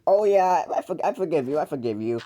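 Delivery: pretend forgiveness. Younger sibling pretending to move on, falsely forgiving. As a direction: act as if it's all forgotten. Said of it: "I'm done pretending to move on".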